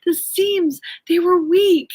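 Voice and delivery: high-pitched, earnest husband imitation; retold sincerity. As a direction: plead it sincerely, on the edge of laughter. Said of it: "he was so sincere".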